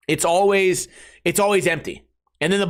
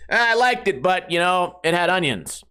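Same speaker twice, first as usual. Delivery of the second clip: picky eater. Retold or imitated. Guest with an eight-year-old's palate critiques dinner, picky. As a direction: lightly mimic a fussy guest making excuses.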